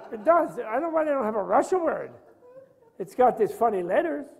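laughing while talking. Real, not acted. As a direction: chuckle through the words. Amused by the Russian sign.

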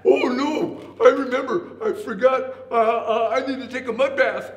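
loud, high flustered stammer; panicked excuse. A narrator's reading. Rhinoceros fleeing the voice in the log, loud panicked excuse. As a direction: blurt out a hasty excuse to get away. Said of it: "when the rhinoceros heard that".

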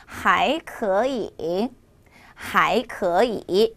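还可以 slowly, with 可 rising before 以; drawn-out 还可以, 可 lifted to second tone; third tone becomes second. Shown as a demonstration. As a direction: tone drill, 可 rises and 以 dips in 还可以. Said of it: "앞에 있는 삼성 이성으로 바뀌어야 되겠죠".

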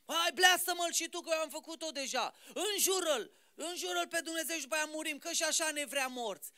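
a hint of the bitter wife. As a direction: egg your husband on to curse God. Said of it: "nevasta asta a făcut".

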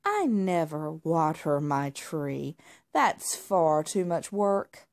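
slow, haughty drawl; can't be bothered; lazy snob. Acted. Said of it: "Marmalade said".

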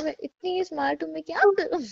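playful boast. Pretend. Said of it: "मैं बोलूंगी".

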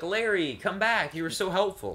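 half-hearted pretend crying; mock tearful plea. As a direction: lightly act out a weepy appeal. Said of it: "she cries".

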